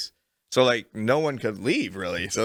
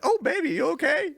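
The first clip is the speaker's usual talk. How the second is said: high, hammed-up sassy lady voice; worried church lady; 13 semitones higher than usual. Comic retelling the lady who rushes to the fainted girl, high and hammed up. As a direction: ham up a fussing older lady.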